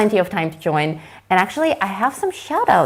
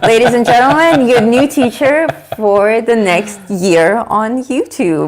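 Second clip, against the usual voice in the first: announcer voice; 2 semitones higher, 6 dB louder than usual. Pretend. Grand mock announcement on stream.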